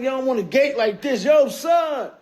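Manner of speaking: calling up from the gate; shouting up to be heard. Retold or imitated. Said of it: "I'm like".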